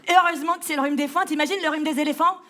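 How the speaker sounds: laughing through the words; giggling at her own joke. Real, not acted. Comic joking about hay fever while laughing.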